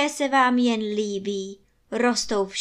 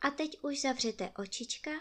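soft goodnight; 11 dB quieter than usual. Real, not acted. Bedtime goodnight to listening children.

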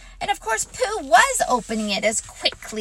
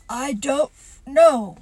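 doleful; 3 semitones higher, 5 dB louder than usual. Acted. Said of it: "said Pooh rather dolefully".

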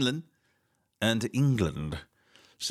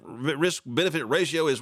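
normal talking voice

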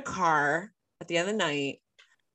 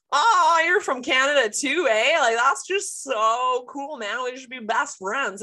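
put-on high, loud, overfriendly Canadian accent; loud Ontarian gush; 7 semitones higher, 5 dB louder than usual. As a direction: play the gushing Ontarian, loud and eager. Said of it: "hot and loud and be like".

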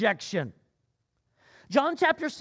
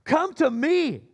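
louder, higher and slow, calling to all; loud cry; 6 semitones higher, 5 dB louder, slower than usual. A narrator's reading. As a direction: cry it out so everyone can hear. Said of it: "cries out to all of them".

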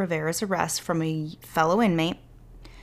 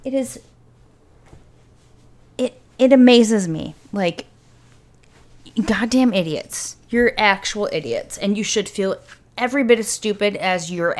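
louder, fired-up scolding; angry rant; 4 dB louder than usual. Real, not acted. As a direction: really let the idiots have it. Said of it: "I'm getting so worked up".

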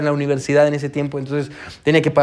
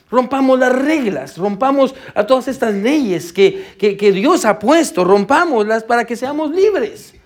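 slow, higher, taunting voice of defiant people; mock rebel crowd voice; 4 semitones higher, slower than usual. Preacher lightly voicing the crowd defying God, slow and taunting. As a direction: lightly play the defiant crowd egging each other on. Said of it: "Miren lo que la gente dice".

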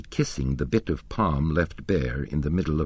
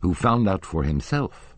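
higher, pressing indignation; indignant; 6 semitones higher, 3 dB louder than usual. A narrator's reading. Madame Giry rebuking the managers, indignant and raised. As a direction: scold them sharply. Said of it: "she cried indignantly".

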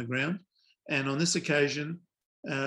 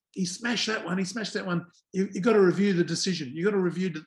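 higher, imitated insistent appeal; mock urging; 5 semitones higher than usual. Bowler pressing his captain to review, mock urging. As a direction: press the point in a raised, play-acted voice.

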